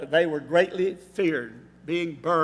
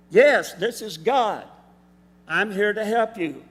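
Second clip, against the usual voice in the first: voice of God; 4 semitones higher, 5 dB louder than usual. Retold or imitated. God answers Jack in joke.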